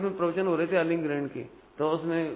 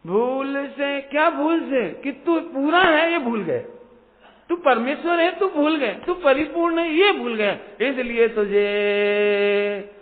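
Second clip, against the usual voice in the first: higher, louder, ringing sermon voice; full-force preaching; 6 semitones higher, 8 dB louder, slower than usual. Acted. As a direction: thunder it to the congregation. (पूरे जोश से प्रवचन)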